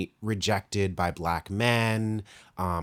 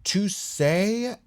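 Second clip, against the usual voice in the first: high, disbelieving squeak; a high incredulous yelp; 12 semitones higher, 3 dB louder than usual. Real, not acted. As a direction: voice jumps up in disbelief. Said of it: "This doesn't make any fucking sense".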